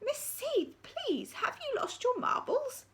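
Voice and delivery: high, breathy appeal; secretary begging Miss Seeth; pleading secretary. Acted. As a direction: plead with the raging deputy.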